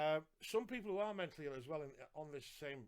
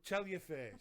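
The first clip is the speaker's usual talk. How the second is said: joking sarcasm, punched louder; playful sarcastic jab; 5 dB louder than usual. Retold or imitated. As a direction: repeat the teasing dig with more push. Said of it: "In that lovely sarcastic way".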